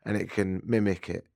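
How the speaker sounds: hoarse from a light cold; scratchy, sick-sounding voice. Real, not acted. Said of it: "You sound a little scratchy".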